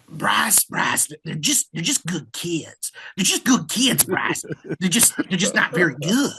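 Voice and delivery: lightly voiced old-coach impression with a jumpy pitch; Kent Bechtel. Coach confiding in Bryce about good kids, affectionate impression. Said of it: "this is the best Kent Bechtel impression I have".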